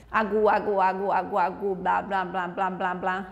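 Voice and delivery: rhythmic babbled syllables run together; demonstrated looping babble; repetitive vocalising. Shown as a demonstration. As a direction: chant nonsense syllables over and over, evenly. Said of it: "vocalizando sons diferentes".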